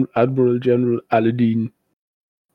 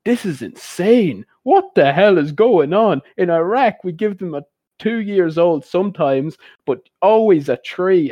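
hammed-up Iraqi accent, mock outrage; imitated Iraqi accent; 7 semitones higher than usual. Comic playing an Iraqi guest tells the governor, in a mock Iraqi accent. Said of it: "puts on the full Iraqi accent".

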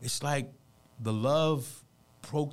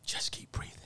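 soft, breath-filled near whisper; quiet, earnest encouragement; hushed advice; 6 dB quieter than usual. Real, not acted. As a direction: let the voice drop to a whisper. Softer repeat of the advice.

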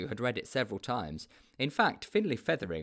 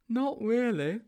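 high-pitched, naive sidekick; high storybook character voice; Sponge's character voice; 13 semitones higher, 4 dB louder, slower than usual. A narrator's reading. Sponge's baffled reply in story.

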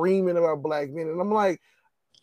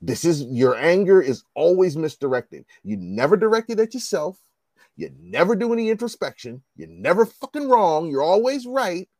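loud, heated retold telling-off; retold yell; 2 semitones higher, 6 dB louder than usual. Recalling yelling at a college classmate, loud retold yell. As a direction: tell her off, raising your voice. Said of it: "And I just yelled at her".

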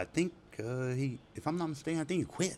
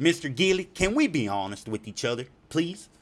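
officer's appeal; 7 semitones higher, 5 dB louder than usual. Retold or imitated. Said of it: "officer said".

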